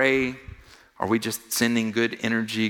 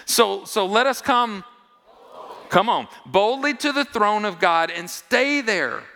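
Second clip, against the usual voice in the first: loud, high, bold proclamation; preacher booming the verse out boldly to the congregation; 12 semitones higher, 5 dB louder than usual. Shown as a demonstration. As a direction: declare it boldly from the pulpit. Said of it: "Can we say that boldly?".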